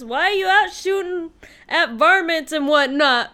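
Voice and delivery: loud, laughing quote delivery; words breaking into real laughter; reading through laughter. Real, not acted. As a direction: read it out while cracking up. Reads quote while cracking up.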